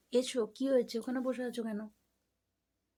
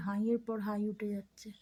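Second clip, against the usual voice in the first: whisper. Real, not acted. Cooing about the pet's yawns.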